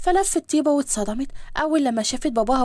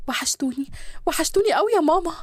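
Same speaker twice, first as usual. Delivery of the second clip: emotional reunion; 3 semitones higher than usual. Acted. Daughter falling into her mother's arms after missing her, overjoyed. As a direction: gush with how much you missed them. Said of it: "جريت عليهم واترمت في حضنهم".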